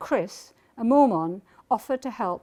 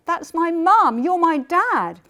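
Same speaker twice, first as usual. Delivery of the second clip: emotional; 7 semitones higher, 8 dB louder, much slower than usual. Retold or imitated. Revealing to father on phone.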